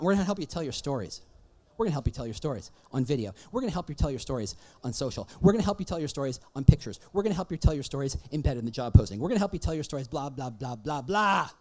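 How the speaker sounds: fast, repetitive rattle spilling into blahs; mocking sales patter. Speaker mocking recruitment marketers' endless pitch, mocking patter. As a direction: parrot the pitch dismissively.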